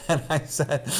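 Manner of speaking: laughing through the words; real laughter. Real, not acted. Amused by the student's warning about his book, laughing. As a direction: break into a chuckle mid-sentence.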